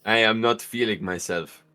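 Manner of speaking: subdued low recitation; dutiful repeating. Acted. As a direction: parrot the line back obediently. Repeats slowly after the prompt.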